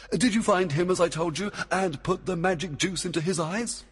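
high, brisk questioning king; commanding Oberon. A narrator's reading. Oberon checks Puck followed orders, keenly. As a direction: press the servant with a high, keen question.

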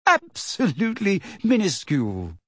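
high, overstressed mock agreement; shrill, exasperated mockery; hysterical sarcasm. A narrator's reading. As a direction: lay the sarcasm on, voice up. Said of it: "with a kind of hysterical sarcasm".

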